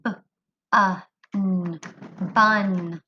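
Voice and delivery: "B-" "uh" "n-" said apart, then blended to "bun"; sounding out. Shown as a demonstration. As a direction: tap each sound slowly. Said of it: "Tap it out".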